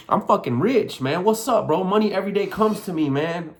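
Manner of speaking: excited self-hype; hyped-up conviction. Shown as a demonstration. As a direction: swagger through the money affirmation. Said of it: "I'll say things like that".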